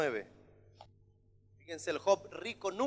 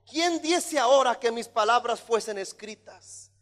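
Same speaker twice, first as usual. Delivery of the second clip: raised, lightly voiced cry of longing; exclaiming Job; 6 semitones higher, 9 dB louder than usual. Preacher quoting Job's wish to be written down, mild exclamation. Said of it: "signo de exclamación, decía Job".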